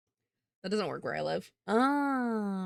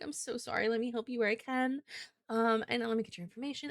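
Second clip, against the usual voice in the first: customer service voice. Shown as a demonstration. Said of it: "I just had to turn on the voice".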